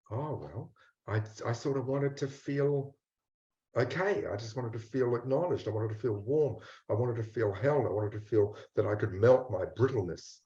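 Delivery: soft, hesitant confession of a hurt inner part; quiet and unsure, owning up bit by bit; voicing the ashamed part. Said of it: "the part that goes".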